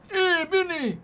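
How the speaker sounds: put-on very high, loud Spanish-accented call. Streamer calls to Vinny in an exaggerated Spanish accent. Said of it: "do my shout-out in a Spanish accent".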